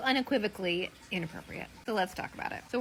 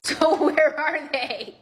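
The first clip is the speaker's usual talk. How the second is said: slow, louder, laughing through it; laughing demand; 4 semitones higher, 6 dB louder, much slower than usual. Real, not acted. Wife laughing as she presses husband for the words. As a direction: laugh while insisting he tell.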